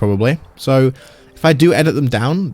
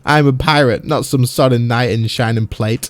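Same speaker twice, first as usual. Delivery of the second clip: rough swaggering pirate; lightly voiced sea-dog sneer. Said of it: "I hope you all liked my pirate, um, voice".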